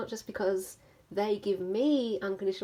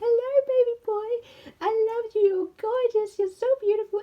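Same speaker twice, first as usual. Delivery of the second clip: put-on very high, loud, gushing baby talk; 13 semitones higher, 8 dB louder than usual. Showing how the speaker talks to the dog Keanu, in dog-talk voice. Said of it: "something about that voice".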